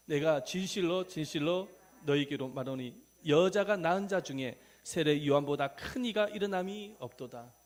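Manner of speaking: loud, measured recitation of a Bible verse; scripture reading aloud. Shown as a demonstration. Preacher leads congregation in Matthew verse, loud scripture recitation. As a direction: declaim the verse firmly.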